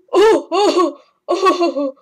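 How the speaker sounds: high laughing oh's; giggling loud oh, oh. Pretend. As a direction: laugh through the words. Laughing reaction to answer.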